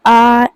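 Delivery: आ held long and slow; drawn-out vowel demo. Shown as a demonstration. Teacher names example vowels to students, slow and drawn out. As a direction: stretch out the आ as the vowel is named. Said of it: "हर स्वर है".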